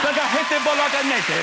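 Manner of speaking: put-on "Spaghetti bolognese" slow and plummy, in a posh English accent. Repeating the Prince's posh English "Spaghetti bolognese" in a mock posh English accent. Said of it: "so posh".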